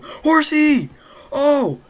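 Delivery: high, loud squeal on Horsey; squealed punchline. Pretend. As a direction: shriek the word like a silly joke. Joking shouted punchline.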